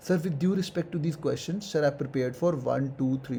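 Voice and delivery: slow, careful polite answer to an interviewer; slow courteous interview reply; polite, respectful. Shown as a demonstration. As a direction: decline the question gently and respectfully. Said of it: "बिल्कुल politely बोलो".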